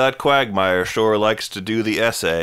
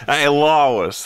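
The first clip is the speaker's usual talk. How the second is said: terrible Peter Griffin; 3 semitones higher than usual. Acted. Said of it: "That was a terrible pe".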